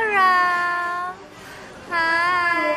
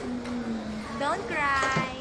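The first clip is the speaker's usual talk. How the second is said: soothing; 5 semitones lower, 7 dB quieter, much slower than usual. Real, not acted. Parent calming a fussy baby, soothing and soft. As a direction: gently comfort in a lowered voice.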